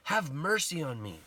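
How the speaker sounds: high, loud pleading cry; desperate retold shout. Blind beggar shouts over the crowd to Jesus, retold shout. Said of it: "And so he starts shouting for him".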